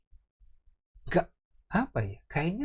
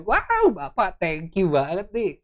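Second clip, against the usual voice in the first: put-on chatty child's prayer; 3 semitones higher, 4 dB louder, slower than usual. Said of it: "anak sama bapak ya bisa yang".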